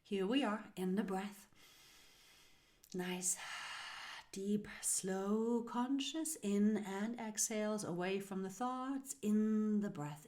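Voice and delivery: unhurried meditation guidance; guided breathing meditation. Acted. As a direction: lead them gently into the breath, pausing between phrases.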